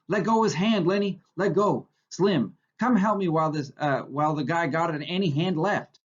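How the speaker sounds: frantic repeated shout. A narrator's reading. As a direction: plead with Lenny to let go, urgently. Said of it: "George shouted over and over".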